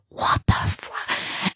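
breathless shocked whisper under the breath; slow, hushed what-the; stunned whisper. Retold or imitated. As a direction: mutter it in disbelief, barely voiced. Shocked inner reaction in church.

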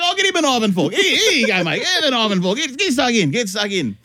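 keen dad handing over a knife and fork; eager host. Retold or imitated. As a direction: overdo the helpful dad. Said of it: "And I was like".

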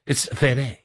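lightly put-on Italian accent; halting, muddled attempt at an Italian accent; a hint of mock Italian. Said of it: "are you doing an Italian accent".

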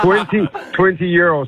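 laughing disbelief. Real, not acted. Caller laughing at the price of a hotel cocoa.

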